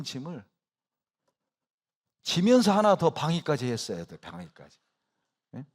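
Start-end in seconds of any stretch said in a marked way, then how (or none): 2.2-4.2 emphatic preaching. Real, not acted. Preaching at full force. 4.2-4.8 soft echo. Real, not acted. Echoed softly after.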